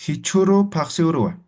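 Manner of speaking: "Hichuro" ends on its vowel, then a separate "paxiurua"; break between words. Shown as a demonstration. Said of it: "Ahí hay un corte".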